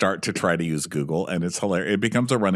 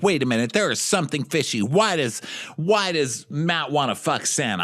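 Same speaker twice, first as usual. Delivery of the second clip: lightly acted suspicious schemer, pitched up; Natasha; 6 semitones higher than usual. Schemer puzzling over a rival's motives, lightly mock suspicious. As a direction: sound like you smell something fishy. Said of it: "Natasha comes up with an idea".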